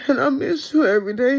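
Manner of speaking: rushed words through tears; tearful and hurried; crying. Real, not acted. Mother tearfully addressing her children.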